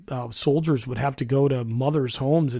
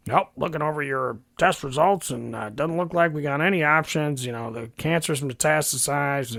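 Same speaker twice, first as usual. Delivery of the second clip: lightly voiced blunt doctor reading off a clipboard; a hint of a detached doctor, matter-of-fact. Doctor delivering a terminal diagnosis with lightly mocked coldness. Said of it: "and he's like".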